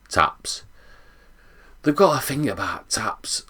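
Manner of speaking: whispered secret; hushed conspiratorial whisper. Real, not acted. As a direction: lean in and whisper it. Secretive reveal of number one.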